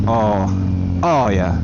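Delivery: excited moan. Real, not acted. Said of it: "excuse me if I make, uh, inappropriate noises".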